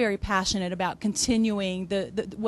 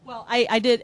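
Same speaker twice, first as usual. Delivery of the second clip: laughing; 3 semitones higher, 4 dB louder than usual. Real, not acted. Laughs after eating while guest talks.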